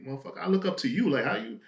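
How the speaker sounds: high, fast, worked-up rush of admiration; imitating a friend gushing with praise; excited retold quote. Friend telling the hustler he looks up to him, high and rushed.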